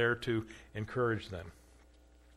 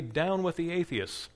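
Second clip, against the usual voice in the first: raised, coaxing command voice; proconsul's urging; 5 semitones higher than usual. Acted. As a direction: press him to say it, pitched up. Proconsul demands Polycarp renounce.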